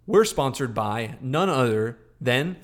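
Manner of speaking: slow, drawn-out announcer plug; mock sponsor read. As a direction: stretch out the sponsor name like a show host.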